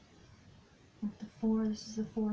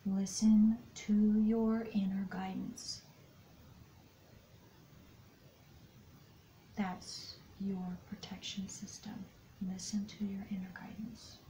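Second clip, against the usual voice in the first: guidance whisper; 5 dB quieter than usual. Acted. Tarot reader whispering guidance to the listener, soft and hushed. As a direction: whisper it gently as inner guidance.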